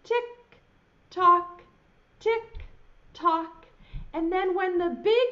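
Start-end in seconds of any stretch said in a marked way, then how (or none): 0.0-3.7 spaced clock ticks in a playful voice; mock tick-tock. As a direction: tick it out like a pendulum. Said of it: "pendulum hanging down that goes".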